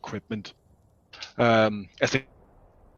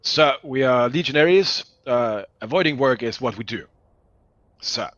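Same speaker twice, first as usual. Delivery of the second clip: gruff mocking soldier; 4 dB louder than usual. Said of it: "with more decorum".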